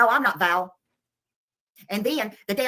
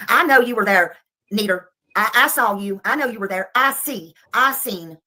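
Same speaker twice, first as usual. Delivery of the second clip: riled up; 3 dB louder than usual. Real, not acted. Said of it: "That got her a little riled up again".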